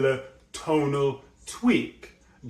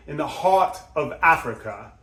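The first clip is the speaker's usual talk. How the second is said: heart stressed clearly; emphasis on heart. Shown as a demonstration. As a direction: land firmly on heart. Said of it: "Clear, solid emphasis on a nice, high, bright tone".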